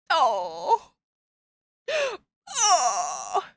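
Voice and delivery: tearful aww. Real, not acted. Touched by father-daughter farewell scene.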